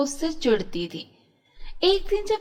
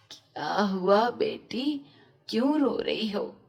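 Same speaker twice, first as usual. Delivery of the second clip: put-on gentle old woman; 2 semitones lower than usual. Old woman comforts girl.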